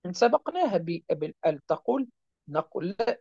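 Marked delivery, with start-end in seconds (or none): none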